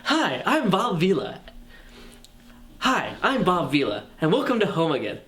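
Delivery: a hint of a folksy TV renovation host; Bob Vila impression. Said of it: "you're doing the Bob Vila accent".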